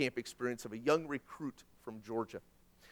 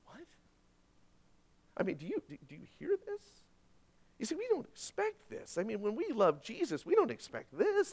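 high, hushed disbelief; incredulous; 7 semitones higher, 6 dB quieter than usual. Real, not acted. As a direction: ask it as if you can't believe it. Incredulous preacher to congregation.

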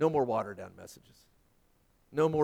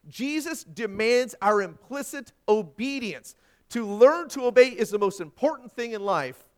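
loud, raised-pitch pulpit quotation; forceful preaching; 8 semitones higher, 9 dB louder than usual. Acted. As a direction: proclaim it emphatically, drawing out key words. Preacher quotes with full force.

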